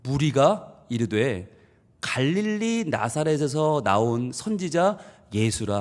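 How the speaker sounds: slow, flat-toned, deflating the name; slow dismissive reading. Shown as a demonstration. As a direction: read it slowly as if shrugging him off. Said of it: "이 말의 뉘앙스를 아셔야 돼요". (천천히 김빠지게 읽기)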